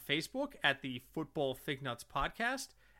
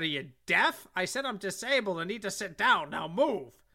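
imitating a rude old lady; 3 semitones higher, 4 dB louder than usual. Old lady repeats demand louder.

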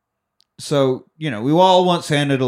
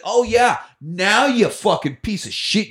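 high, slowed-down cursing; mock scolding; 7 semitones higher than usual. Santa berating the reindeer, high mock anger. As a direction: curse with mock outrage.

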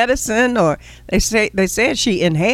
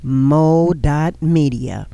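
slow emphatic ad read; 3 semitones lower than usual. Acted.

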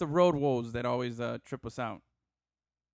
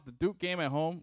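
voice cracking. Real, not acted. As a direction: voice breaks mid-line. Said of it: "Wow, my voice just cracked".

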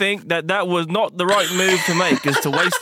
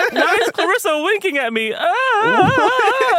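character voice; 11 semitones higher, slower than usual. Acted. High character voice.

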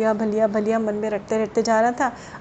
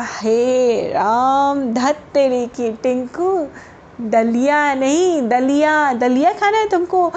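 exasperated mom; slower than usual. Acted. Mother exasperated, amused.

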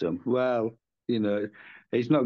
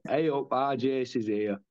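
northern greeting; 4 dB louder than usual. Retold or imitated. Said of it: "and it should be".

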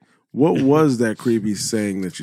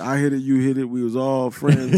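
lightly mocking, hesitant delivery; mock awkward pickup. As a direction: stumble through it with ums and pauses. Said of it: "This is exactly how you said it too".

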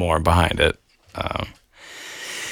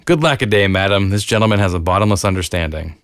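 hammy stage actor; faster than usual. Acted. Rereading the quote.

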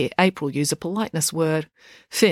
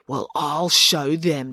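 slow, determined vow; girl vowing to prove them wrong, slow; declaring; much slower than usual. Acted. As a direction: vow it deliberately. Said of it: "declared April".

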